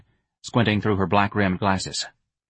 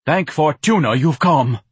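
louder, slow, pompous gratitude; grandiose Ignatius; 6 semitones higher, 5 dB louder, slower than usual. Acted. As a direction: draw it out like a rescued martyr. Ignatius greets Myrna.

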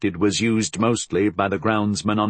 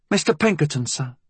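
higher-pitched deferential inspector calling in; 7 semitones higher than usual. A narrator's reading. Inspector at the door hailing his superior, calling in. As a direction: call politely to a superior. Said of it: "the inspector called in".

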